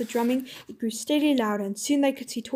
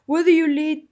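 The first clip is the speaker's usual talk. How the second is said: louder, slow demanding challenge; commanding challenge; 2 semitones higher, 5 dB louder, slower than usual. Acted. King challenging the Calormene soldiers, loud and slow. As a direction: challenge them with authority. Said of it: "thundered Trinian".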